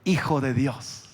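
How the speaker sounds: slow, hushed reading of a record, ending in a whisper; solemn reading. Acted. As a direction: read the name softly like a sacred registry entry. (lectura solemne, lenta y susurrada al final)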